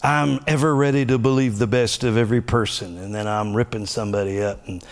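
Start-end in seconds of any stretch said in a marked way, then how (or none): 0.0-3.0 declaring. Shown as a demonstration. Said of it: "speak it out loud like the confessions".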